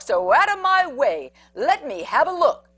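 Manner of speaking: bully dog returns with a growl. Acted. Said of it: "growled Big Bark".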